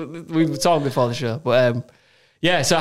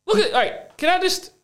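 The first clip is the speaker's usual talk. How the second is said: appalled; 13 semitones higher than usual. Real, not acted. Appalled looking at game.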